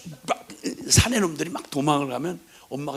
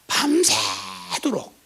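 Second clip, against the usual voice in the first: put-on drawn-out drunk father; 6 semitones higher, much slower than usual. Drunk father voiced in threat.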